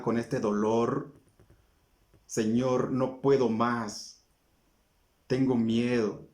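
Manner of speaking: slow, weary plea fading to almost nothing; pleading prayer. Acted. Believer praying for rescue, slow and fading plea. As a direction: beg for help as if you can't go on.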